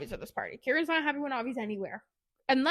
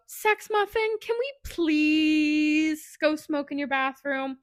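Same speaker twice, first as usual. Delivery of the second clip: flirty sweet voice; 3 semitones higher, 4 dB louder, slower than usual. Retold or imitated. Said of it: "She says to Theo".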